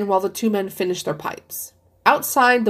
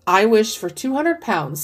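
slow, each word of I wish for two hundred pounds set apart clearly; distinctly. A narrator's reading. Old man making the wish aloud, slow and distinct. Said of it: "said the old man distinctly".

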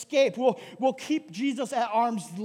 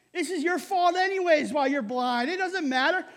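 crowd heckling; 5 semitones higher than usual. Acted. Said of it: "Many other people yelled at him".

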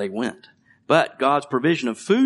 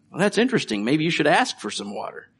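higher, mock-interested dad voice; corny dad; 6 semitones higher, faster than usual. Dad teasing his thirsty child, corny and higher. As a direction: tease the kid with a corny reply. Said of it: "corny like".

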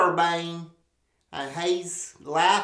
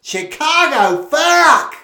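rising to a yelled fuck; panicked mock outcry; 5 dB louder than usual. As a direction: people freaking out about Chicago. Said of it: "they're like".

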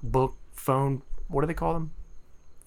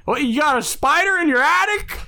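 put-on very old man; 11 semitones higher, 4 dB louder than usual. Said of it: "I'll do my old man impression".

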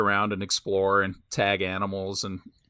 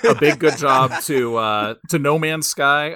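sarcastic praise; 4 semitones higher, 5 dB louder than usual. Acted. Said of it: "giving participation points".

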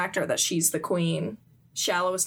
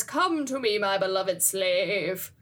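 lightly voiced regal summons; a hint of slow, grand royalty; real queen; slower than usual. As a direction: beckon like a queen, stretching out the ending. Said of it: "reaches down the real queen, who says".

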